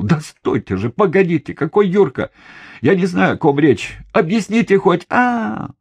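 high, loud pleading cry, rising toward the end; begging for his life, voice climbing; desperate wail. A narrator's reading. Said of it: "и завопил".

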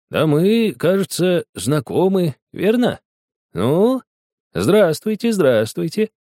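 put-on high, friendly surprised old man; pleased surprise. A narrator's reading. Old botanist surprised to recognise the girls, friendly. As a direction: greet them with smiling surprise. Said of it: "улыбнулся удивлённо".

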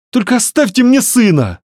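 put-on high, loud, pleading young woman; desperate plea. A narrator's reading. Varya begs Matvey to leave her the son, high and desperate. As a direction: beg with everything left.

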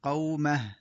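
قومه stopped with a light final h, falling; pausal form. Shown as a demonstration. Teacher demonstrates stopping on the word. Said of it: "وقف".

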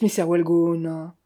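«mister Wellgone» drawn out slowly; slow, pointed «mister Wellgone»; irritating insistence. A narrator's reading. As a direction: linger needlingly on «mister Wellgone». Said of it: "avec une insistance agaçante".

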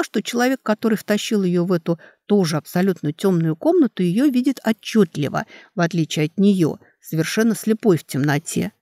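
plain reading voice

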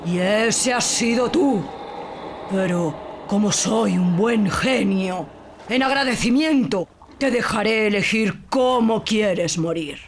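slow, solemn genie voice; a giant genie telling his curse slowly; menacing genie. Acted. Genie tells his oath. (genio grave, lento y amenazante)

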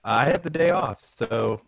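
glitchy robotic mic sound; distorted like a broken Discord line. Real, not acted. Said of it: "you sound like a robot".

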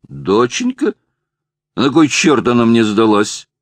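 put-on drunk, words running together; slurred drunk speech. A narrator's reading. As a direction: slur it like a drunk. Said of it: "заплетающимся языком проговорил Джеймс".

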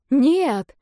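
loud, high alarmed no; loud frightened refusal; frightened cry. A narrator's reading. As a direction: cry out in panic. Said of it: "испуганно воскликнула я".

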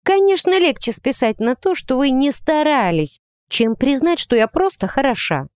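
high-pitched, annoyed comeback; irritated retort. A narrator's reading. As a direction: argue back, annoyed and indignant. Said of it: "Я раздражённо сложила руки на груди".

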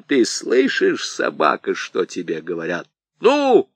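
bully him into giving in; furious interrogation. Acted. Аргылов допрашивает старика. (громкий яростный допрос с криком в конце)

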